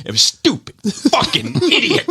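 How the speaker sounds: very high, laughing through the insult; laughing mock rant. Son laughing while imitating his mother's insult, very high. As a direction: crack up while imitating her.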